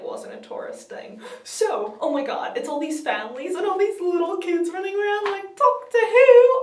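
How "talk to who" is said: high, loud, drawn-out mock kid yell; imitated kids' shouting. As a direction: call it out slowly like an excited kid. Kids running around, shouting.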